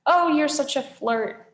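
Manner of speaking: high, loud fake coyness; falsetto flirt. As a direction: flutter it like a fake bride. Grover fake bride.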